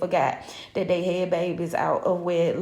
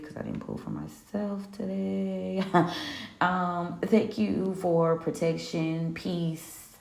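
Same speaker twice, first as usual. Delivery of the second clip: quiet, softer thanks to a spirit guide; murmured prayer of thanks to Papa for the gift; closing prayer; 3 dB quieter than usual. Acted. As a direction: pray softly, grateful and unhurried.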